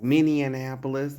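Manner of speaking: mock puzzled locals asking Minneapolis? with an extra n, Minne-an-apolis; quoting baffled locals. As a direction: imitate confused locals questioning it. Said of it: "they be like".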